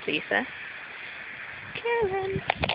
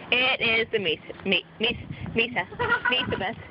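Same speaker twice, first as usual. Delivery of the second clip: stumbling over numb lips. Real, not acted. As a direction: lips too numb to shape it. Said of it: "My lips are numb".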